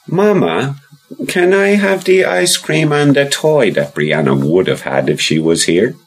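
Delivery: put-on high little boy voice; child voice. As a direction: voice young Rory, high and eager. Rory asks a third time.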